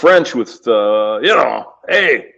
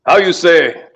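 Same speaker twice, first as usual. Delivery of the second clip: mock French accent; 4 semitones higher, 3 dB louder, slower than usual.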